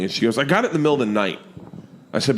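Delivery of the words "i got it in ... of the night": mock annoyance, quick and pitched up; pissed-off daughter. Daughter corrects dad's period story, retold as mildly pissed off. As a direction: imitate a daughter's fast, higher correction. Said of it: "Georgia got really pissed off".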